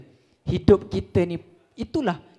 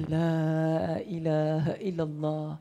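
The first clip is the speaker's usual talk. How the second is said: quiet, slow, drawn-out la ilaha illallah; soft slow tahlil; 5 semitones lower, 7 dB quieter, slower than usual. Acted. Father hearing his son is dead, murmuring softly and slowly. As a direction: breathe the words out gently.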